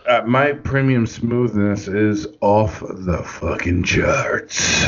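low, breathy smooth delivery trailing off; smooth announcer voice. Shown as a demonstration. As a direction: purr it like a smug smoothie. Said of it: "I don't know why I just said it like that".

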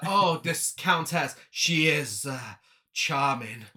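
slow, gushing society lady; swooning society woman. Retold or imitated. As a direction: drawl it out like a smitten party guest. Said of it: "she's like".

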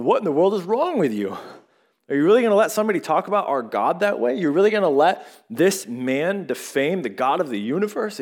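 David, indignant at the men who won't answer Goliath. Retold or imitated. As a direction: demand it of the cowering soldiers, incredulous. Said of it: "And he just gets indignant".

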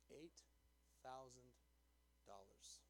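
soft and low, word by word with long pauses; hushed reveal. Real, not acted. Pastor reveals the offer to the congregation, hushed. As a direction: drop the voice and space out each word.

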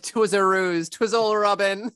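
put-on gloating old-fashioned villain unmasking; mock villain confession.

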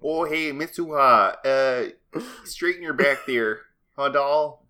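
put-on old-timey Mid-Atlantic accent, playful; hint of a Mid-Atlantic wisecracker. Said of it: "Mid-Atlantic".

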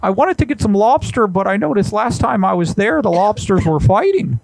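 a hint of a fussy psychologist caller; Jordan Peterson. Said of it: "I'm gonna try to get this Jordan Peterson".

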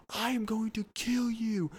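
mock angry neighbor. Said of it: "all of a sudden we hear".

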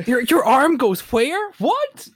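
high, slow disbelieving question; astonished. Acted. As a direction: ask in wide-eyed disbelief. Mock amazement at contortionist.

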